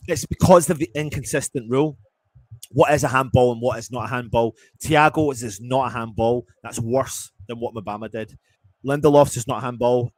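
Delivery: real exasperated fan outburst; angry rant. Real, not acted. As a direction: hammer the point home in anger. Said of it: "I feel genuinely so angry".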